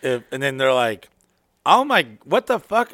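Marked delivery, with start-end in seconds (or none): 1.6-2.9 high, slow, horrified gasp of a line; shocked disgust. Retold or imitated. Girls seeing him naked, shocked and disgusted. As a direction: recoil in mock disgust.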